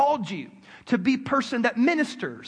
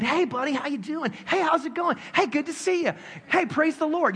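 higher, eager pastor hellos; lightly hammed-up church welcome; churchy greeting; 8 semitones higher than usual. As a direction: greet everyone like a bubbly youth pastor. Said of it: "I'm in churchy mode".

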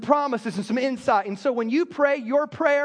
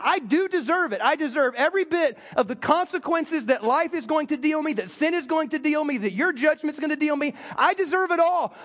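emphatic confession, raised in pitch; bold and plain; 3 semitones higher than usual. Retold or imitated. David confesses to God what he deserves, bold and plain. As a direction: declare it boldly, holding nothing back. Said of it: "he says this boldly and plainly".

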